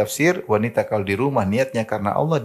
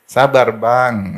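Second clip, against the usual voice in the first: very slow, gentle "Sabar, Bang"; soft and slow; much slower than usual. Shown as a demonstration. Preacher teaching wives to calm husbands, slow gentle. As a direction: stretch it out soothingly. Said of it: "Halus ngomongnya".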